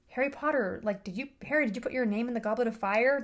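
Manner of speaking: lightly imitated calm question; a touch of measured headmaster calm; Dumbledore asking calmly. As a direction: ask gently, without alarm. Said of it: "Dumbledore asked calmly".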